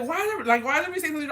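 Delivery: high, loud exasperated retort; acting out an irritated outburst; mad. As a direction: raise pitch and volume in annoyance. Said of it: "I got mad".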